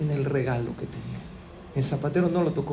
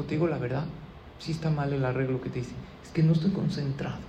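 dejected confession; 2 semitones lower, 6 dB quieter, faster than usual. Acted. Poor shoemaker confesses to the customer, softly dejected. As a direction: admit it quietly, defeated. Troubled shoemaker admits his failure.

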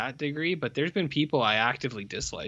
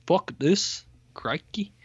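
lightly put-on Australian, pitched up; Australian accent; 5 semitones higher, slower than usual. Dad fed up after mom leaves, mock Australian accent. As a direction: imitate an Australian dad's accent. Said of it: "that's an Australian accent entirely".

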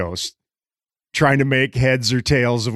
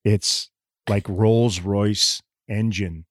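smooth, smoky compliment; 3 semitones lower, 4 dB quieter, much slower than usual. Acted. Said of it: "the voice".

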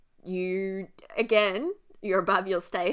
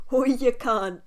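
laughing protest; 5 semitones higher, 9 dB louder than usual. Shown as a demonstration. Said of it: "and, like, laugh".

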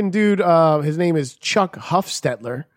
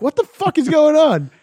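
much higher, raised-voice demand; retold exasperated shout; 12 semitones higher, 4 dB louder than usual. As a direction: yell it high in mock exasperation. Louder repeat in retold call.

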